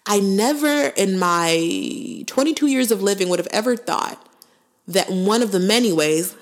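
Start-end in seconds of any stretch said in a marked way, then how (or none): 4.9-6.3 many leaned on, rising; stress on many. Shown as a demonstration. She stresses many to listeners, rising on it. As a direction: lean on the word many. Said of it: "emphasis on many".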